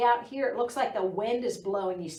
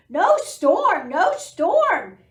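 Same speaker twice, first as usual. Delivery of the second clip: higher, loud duck call; quacking duck; 8 semitones higher, 11 dB louder, slower than usual. Acted. Duck calling from the window, loud quack. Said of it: "he quacked".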